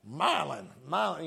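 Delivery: "Milan" as MY-lun, stress up front; West Tennessee pronunciation. Shown as a demonstration. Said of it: "in West Tennessee we call that".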